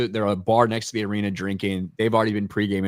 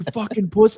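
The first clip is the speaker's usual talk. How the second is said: put-on drunk scream, higher and louder; 12 semitones higher, 4 dB louder than usual. Retelling yelling at an injured player while drunk: retelling screaming at someone. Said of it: "I was screaming at him".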